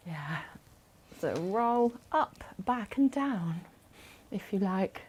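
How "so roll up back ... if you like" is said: slow, lightly voiced Lancashire accent on back and down. Shown as a demonstration. Instructor cueing shoulder rolls to class, in a mild Lancashire accent. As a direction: ease into a hint of Lancashire, slowly. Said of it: "Is that better?".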